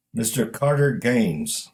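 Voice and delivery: put-on Chinese accent. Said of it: "Only it came out in broken English".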